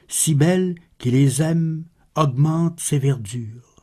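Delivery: measured, solemn poem reading; poetry recitation. Acted. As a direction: recite the verse with deliberate pauses between phrases. (récitation de poème, posée et solennelle)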